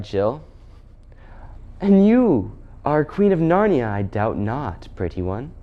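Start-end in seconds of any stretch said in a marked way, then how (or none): 1.8-5.5 condescend sweetly, slowing as it drops; witch queen. Acted. Witch queen teasing Jill as Narnia's queen, condescending.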